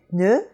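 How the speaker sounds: "pneu" with almost no air on the P; P straight into N in "pneu"; unpuffed French P. Shown as a demonstration. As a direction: model "pneu" as one French syllable. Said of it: "puff of air has practically gone away".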